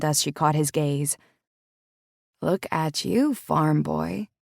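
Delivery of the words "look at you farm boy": low voice. Acted. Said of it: "her voice low".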